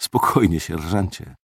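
calm him with a quiet murmur; muttered. Acted. Officer soothing the startled sergeant, a soft mutter. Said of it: "mruknąłem".

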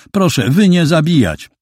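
put-on high, pleading voice of a scared girl; frightened broken Polish. A narrator's reading. Scared girl pleading with the two men, high and pleading. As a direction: beg them not to kill her.

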